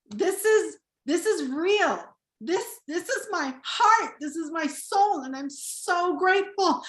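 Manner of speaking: a heartfelt, choked-up thank-you; getting emotional. Real, not acted. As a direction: voice lifting high with real emotion. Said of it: "Can't believe I'm getting emotional".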